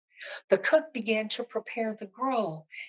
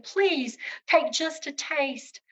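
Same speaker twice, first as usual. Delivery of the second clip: tearful pleading; 6 semitones higher, slower than usual. Acted. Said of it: "began to cry and, and implored him".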